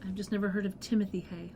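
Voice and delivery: hushed puzzled whisper. Real, not acted. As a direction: murmur it under your breath. Puzzled aside about hay.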